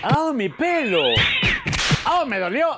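hammed-up cries of injury; pained cries. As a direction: howl as if your hair is pulled. Guest attacked, crying out.

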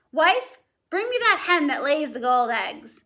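a lightly voiced gruff ogre order; mild ogre bark; ogre demanding. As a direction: command the wife like a giant. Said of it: "when the ogre spoke".

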